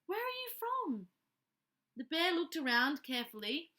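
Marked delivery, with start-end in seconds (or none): 0.1-1.1 higher, kindly asking voice; a hint of a gentle mother; lightly voiced Mrs Brown. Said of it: "said Missus Brown".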